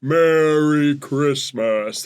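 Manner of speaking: jolly Santa ho ho ho; big slow Santa laugh; Santa Claus voice. Retold or imitated. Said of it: "she did a great Santa Claus".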